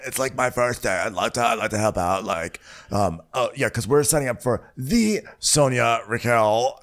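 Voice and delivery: high, fast eager intern voice; ditzy Emily voice. Retold or imitated. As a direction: gush like an overeager new intern. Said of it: "Emily is like".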